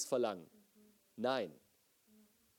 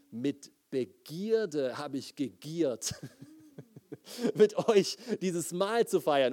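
slow start breaking into a laugh, ending louder; laughing paraphrase; 3 dB louder, much slower than usual. Shown as a demonstration. Pastor rewording the verse for the congregation, laughing. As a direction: say the blunt rewording half-laughing at its boldness. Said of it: "um dir das klar zu machen".

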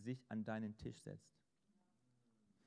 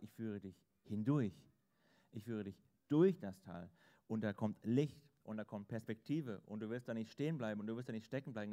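shepherd's promise; 5 dB louder than usual. Acted. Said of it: "Er sagt".

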